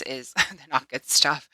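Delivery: laughing at her own wording; laughing through the words. Real, not acted. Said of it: "Oh my God, I can word".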